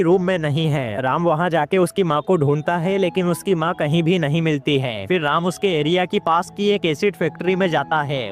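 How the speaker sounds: steady, evenly pitched plot narration; movie explainer voiceover; story recap narration. A narrator's reading. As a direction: narrate the plot in a continuous, regular rhythm.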